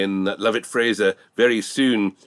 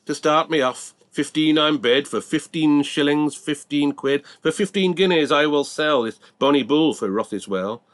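auctioneer patter; 6 semitones higher than usual. Acted. Auctioneer calling the bids.

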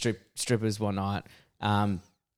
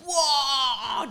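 amused whoa; 12 semitones higher than usual. Retold or imitated. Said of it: "we're like".

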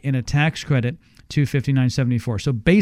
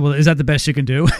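fast, offhand haggle over the price; quick haggling ask; faster than usual. Retold or imitated. Host retelling his haggle with Tom, quick and offhand. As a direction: toss it off quickly like a cheeky bargainer. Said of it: "And I said".

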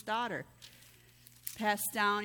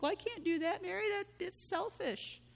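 lightly voiced prim churchgoer, higher pitch, slowing at the end; a hint of a prissy scold; mock objector; 9 semitones higher, 3 dB quieter than usual. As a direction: imitate a self-righteous friend scolding. Mocking what some people think.

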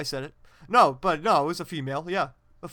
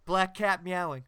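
slightly louder spoken sound effect; deadpan spoken sound effect; voice describing sounds; 5 dB louder, slower than usual. Pretend. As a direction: announce it like a sound-effect label. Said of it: "Is this some kind of word association".

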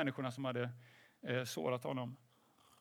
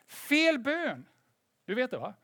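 high, loud objection in mimicked indignation; hammed-up scandalised protest, pitch jumping up; mock outrage; 7 semitones higher, 5 dB louder, slower than usual. Religious onlookers objecting to Jesus's words, high mock outrage. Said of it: "de här religiösa människorna då bara".

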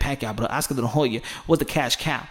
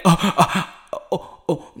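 mock nervous backing off. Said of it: "people gonna be like".

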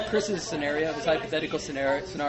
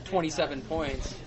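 bad New Zealand accent; 2 semitones lower than usual. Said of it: "my New Zealand accent sucks".

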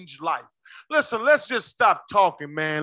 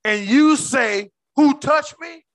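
mock incredulous disciple, building louder to the question; disrespectful disciples; 4 semitones higher, 4 dB louder, slower than usual. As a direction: question him as if he's being ridiculous. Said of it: "See how they disrespect Jesus?".

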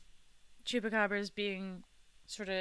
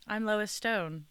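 NPR voice. Acted. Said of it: "I love your N P R voice".

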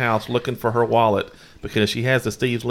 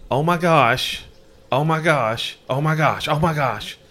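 mock panicked oh my gosh, higher; a husband hamming up his wife's panic; imitating panic; 4 semitones higher, slower than usual. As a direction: retell the wife's alarm, half-acted. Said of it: "she's panicking".

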